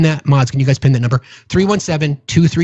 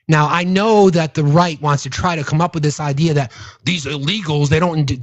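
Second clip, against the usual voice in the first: ordinary talk, nothing marked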